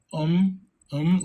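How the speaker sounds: "um" rhyming with hum; sounded-out syllable. Shown as a demonstration. Teacher sounding out a word, "um" like hum. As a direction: say "um" as a separate, drawn syllable like hum. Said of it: "like hum".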